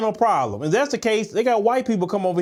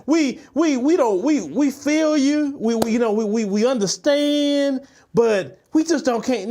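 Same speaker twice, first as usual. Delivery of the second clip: mocking her stammer; 3 semitones higher than usual. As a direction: parody a nervous, fumbling excuse. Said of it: "ma'am, and say".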